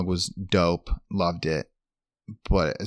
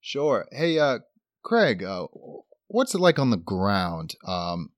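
anchor questioning the field reporter; news anchor voice; 3 semitones higher than usual. Acted. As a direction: quiz the reporter like live TV. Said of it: "full news anchor voice".

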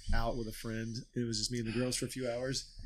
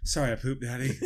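put-on sweet apologetic toddler; little girl voice; 6 dB louder than usual. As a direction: say it like a small child.

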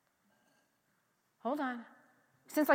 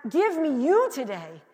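slow, emphatic plea to God; drawn-out preacher's petition; crying out; 3 dB louder, slower than usual. Acted. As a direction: cry out in measured, fervent prayer. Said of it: "And so you cry out".

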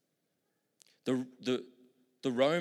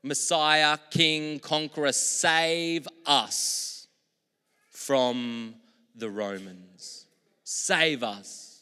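pleading crowd cry; 3 semitones higher, 5 dB louder, much slower than usual. Retold or imitated. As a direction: beg the conqueror to save them. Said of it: "it basically means".

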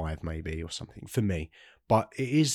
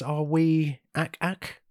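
high squawky alien ack; Martian ack; 8 semitones higher, much slower than usual. Pretend. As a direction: croak it like a Martian. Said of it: "so Mars Attacks".

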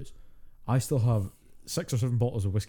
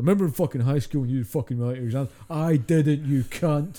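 fast, loud, higher mock drunk snarl; drunk rant; 4 semitones higher, 4 dB louder than usual. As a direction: lay into a friend like a nasty drunk. Acting out his drunk self.

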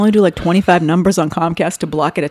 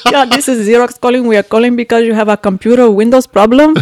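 put-on Indian accent; 3 semitones higher, 4 dB louder than usual. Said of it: "And he goes".

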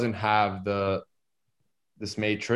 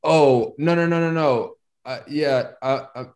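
higher, louder flustered no no no; mock flustered refusal, higher and louder; flustered denial; 3 semitones higher, 4 dB louder than usual. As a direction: brush it off in a startled rush. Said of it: "the response that I got".

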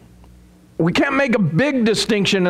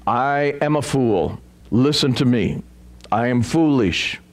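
mock fool; 9 semitones lower than usual. Mock self-confessed fool quote.

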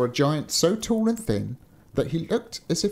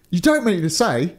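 high, louder storybook exclamation; exclaiming; 5 semitones higher, 6 dB louder than usual. A narrator's reading. Reading a fairy tale to a friend, exclaiming. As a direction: exclaim it in disbelief, voice lifted. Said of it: "he exclaimed".

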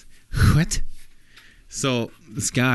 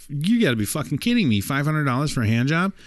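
outraged disbelief; 7 semitones higher than usual. Acted. John shocked at the price.

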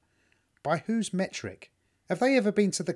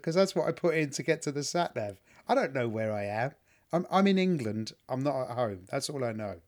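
ordinary talk, nothing marked

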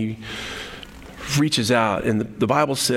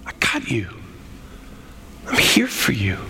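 reassuring; 4 semitones lower than usual. Acted. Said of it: "He's not mad at Peter".

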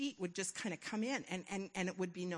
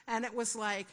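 usual speaking voice

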